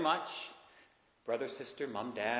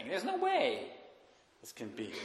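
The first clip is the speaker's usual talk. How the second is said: incredulous disbelief; 2 semitones higher, 5 dB quieter than usual. Retold or imitated. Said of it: "is what he's saying".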